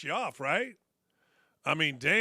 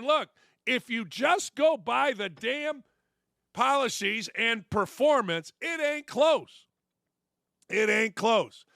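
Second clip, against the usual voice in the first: drawn-out, higher-pitched verdict; emphatic pundit quote; 4 semitones higher, slower than usual. Retold or imitated. Quoting a sports pundit's argument to listeners, emphatic. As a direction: come down hard and slow on each verdict. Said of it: "Stephen A. Smith is saying".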